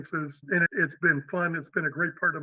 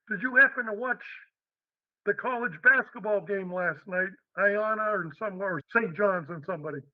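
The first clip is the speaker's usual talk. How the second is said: put-on heavy New York accent; 2 semitones higher than usual. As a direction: keep the thick New York accent going. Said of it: "with a real heavy New York accent".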